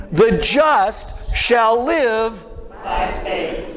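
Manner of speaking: slow, solemn reading of scripture. Shown as a demonstration. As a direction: read it slowly and weightily. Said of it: "as it is written".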